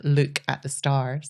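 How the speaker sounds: slow Scottish "look at the stars" with long double O's in "look"; Scottish accent. Shown as a demonstration. Explaining the phrase to podcast hosts, in a Scottish accent. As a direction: stretch the Scottish OO in "look", slowly. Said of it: "it's hard to say this Scottish accent".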